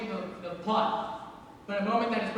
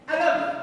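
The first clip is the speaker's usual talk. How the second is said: "I love you" with a rising end like a question; tentative "I love you" asked, not stated; question intonation; 6 semitones higher, 5 dB louder than usual. Shown as a demonstration. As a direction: say "I love you" unsure, tune lifting at "you". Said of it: "phrase it as a question".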